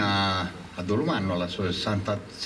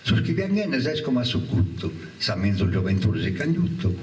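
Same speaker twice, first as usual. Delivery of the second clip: rising, impassioned poetry recital; poem recital; 2 semitones higher, 3 dB louder than usual. Acted. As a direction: declaim the war poem with feeling.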